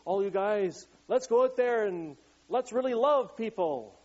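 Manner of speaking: rally the crowd, hammed up; mock pep rally. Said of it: "a little pep rally".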